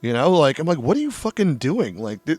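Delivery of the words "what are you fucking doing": retold disbelief, pitched up; higher, incredulous retold scolding; exasperated demand. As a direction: demand it like a fed-up host. Retold scolding of misbehaving guests.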